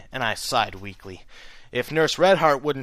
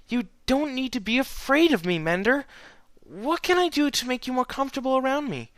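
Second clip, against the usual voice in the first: gentle reassuring mare; 13 semitones higher than usual. A narrator's reading. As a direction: coax him kindly. Twilight reassuring.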